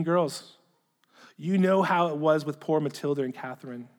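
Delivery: measured reading, starting strong and easing down; letter read aloud. Acted. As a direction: read out the letter with deliberate phrasing.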